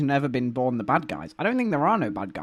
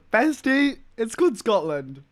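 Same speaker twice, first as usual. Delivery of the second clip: sassy correction; 9 semitones higher than usual. Retold or imitated. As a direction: correct them with exaggerated sass. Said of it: "I was like".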